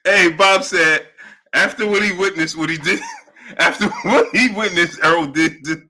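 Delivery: high, squealing voice through laughter; laughing to tears. Real, not acted. Host retelling Bob's insult, laughing until he cries. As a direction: fight to finish the quote while cracking up. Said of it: "I'm literally in tears".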